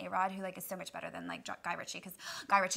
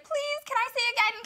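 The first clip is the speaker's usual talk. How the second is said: mock crying plea; 14 semitones higher, 7 dB louder than usual. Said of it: "started crying".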